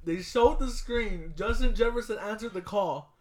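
slow, loud, high build-up; excited retelling. Real, not acted. Fan tells co-host about the pick coming up, excited. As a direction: draw out the big moment, loud and high.

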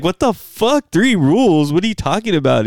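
kid's hammed-up shock at the rules; mock disbelief. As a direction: play the baffled nine-year-old. Retelling his nine-year-old self.

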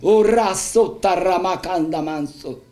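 fervent prayer in tongues, flowing syllables; speaking in tongues. Real, not acted. Pastor praying in tongues before the church, fervent. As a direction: pour it out in tongues to the congregation.

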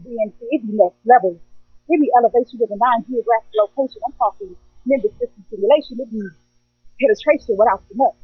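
rhythmic spoken word performance; spoken word poem. Acted. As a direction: perform it like slam poetry.

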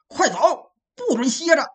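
loud, harsh yelled command to move; barking order. Acted. Yang Zhi yelling at resting soldiers, loud harsh command. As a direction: bark it at the exhausted soldiers. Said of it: "嘴里喝骂".

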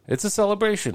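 high, bright burst of celebration; excited exclaim. Real, not acted. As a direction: throw it up high with joy.

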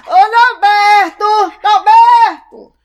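long, slow shouted call; calling out loud. Acted. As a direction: call him from the next room. Mother calling son across house.

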